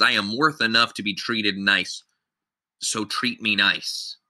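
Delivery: "so treat me nice" slowed and final after a pause; point carried to the end. Shown as a demonstration. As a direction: run "worth enough to be treated nice" on into a slow "so treat me nice". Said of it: "is the end".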